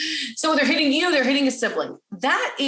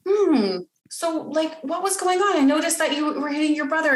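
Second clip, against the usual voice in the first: higher-pitched, musing parent voice; gentle curiosity; 5 semitones higher than usual. Acted. Parent asks child what was going on, gently curious. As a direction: wonder aloud without accusing.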